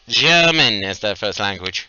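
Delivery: a hint of put-on German accent; mock German accent. Game master describing German speakers, in mock German accent. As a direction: lean into "German" loudly with a light German accent.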